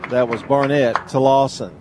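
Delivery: rising radio baseball call; play-by-play call. Acted. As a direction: call the play live, building.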